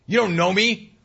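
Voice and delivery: high laughing protest; a laughing mock protest, pitched high. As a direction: laugh through it, mock outrage. Host mocking greeters, laughing.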